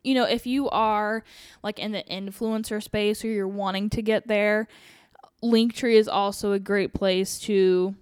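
breathless, rushing through; talking while short of breath. Real, not acted. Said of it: "I'm out of breath".

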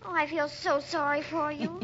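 soft, weepy sympathy; girl moved by the lost-leg story, soft and tearful. Acted. Girl moved by the sailor's tale.

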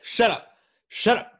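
high, loud hammed-up shout of shut up; mock yell. Friend reenacting a movie scene, high mock shouting. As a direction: yell it like a raging clerk. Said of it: "And when he's like".

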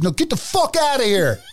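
high, dismissive tough cop in a mock Italian accent. Cleveland cop brushing off the tossed drunk, high and tough. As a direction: wave it off like a tough bouncer cop. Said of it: "this cop looks at me and goes".

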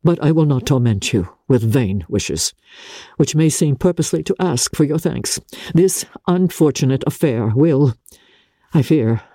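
compassionate but holding back; a hint of restrained Darcy. Darcy taking leave of grieving Elizabeth, restrained.

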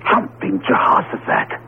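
slow, breathless whispered oath; stunned whisper. Acted. Professor turns and sees the Pharaoh, slow awed whisper. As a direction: gasp it out in shock.

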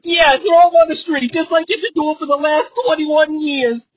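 mock taunting jeer. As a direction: needle them on the way out. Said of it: "Russo's like".

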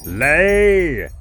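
booming giant order, high and loud; loud command. Acted. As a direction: bellow the order. Giant commands the hen again.

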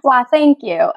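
hammed-up Southern thanks; Southern accent. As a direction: try on a playful Southern accent. Plays along with Southern accent.

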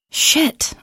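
whispered under the breath; a sharp whispered swear to herself; hushed, annoyed whisper; whispered curse. Acted. Woke late, swears to herself.

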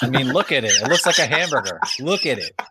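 loud insisting. Real, not acted. Insisting the carrier looks like hamburger.

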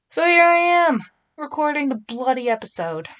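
finally recording, excited; excited declaration. Real, not acted. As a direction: announce it like a victory. Hyping herself into recording.

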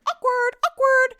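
very high, drawn-out squeak; mock-awkward singsong. Reacting to friend's blunder with bookstore worker, mock-awkward singsong. Acted reaction to embarrassing remark.

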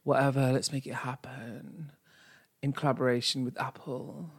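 bubbly influencer pitch, lightly done; TikTok influencer. Pretend. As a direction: hype up a fake challenge. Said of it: "speak to them in TikTok language".

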